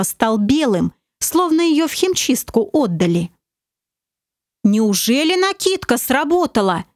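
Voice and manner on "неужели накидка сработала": amazed. Acted. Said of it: "изумился Олег".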